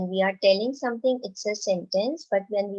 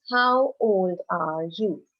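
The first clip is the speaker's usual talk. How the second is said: slow questioning read-aloud; teacher modelling a question; slow model question; 2 semitones lower, slower than usual. Shown as a demonstration. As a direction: ask it slowly and clearly for the class. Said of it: "the next sentence is".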